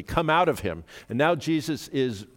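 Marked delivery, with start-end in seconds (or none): 0.0-0.8 raised, commanding order; stern command. Acted. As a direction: command it firmly, pitched higher. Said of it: "Jesus said sternly".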